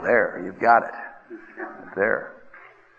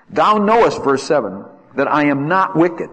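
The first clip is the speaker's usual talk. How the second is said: raised plea; 4 semitones higher, 5 dB louder than usual. Acted. Preacher voicing Job's plea.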